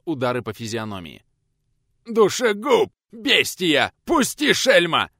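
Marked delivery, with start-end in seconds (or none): 2.1-5.1 shrill panicked squeal, much higher and louder. Acted. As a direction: squeal like he's being beaten. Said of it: "верещал тот". (верещит в панике, высоко и громко)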